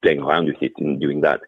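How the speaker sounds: English with a French colouring; French accent. Shown as a demonstration. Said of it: "finding a French accent and putting it on".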